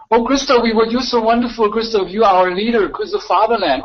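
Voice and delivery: put-on hero worship; mock adulation. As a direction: gush in mock praise of a great leader. Mock praise of a leader.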